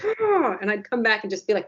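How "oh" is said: grudging oh. Retold or imitated. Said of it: "And I'd be like".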